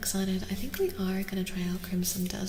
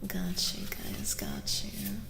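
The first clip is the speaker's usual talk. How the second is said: much lower, slow whispered growl; deep voice; 4 dB quieter, slower than usual. Pretend. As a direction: drop into a goofy deep whisper. Playful deep voice to chat.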